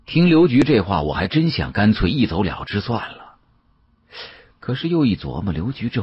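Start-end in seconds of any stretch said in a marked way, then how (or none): none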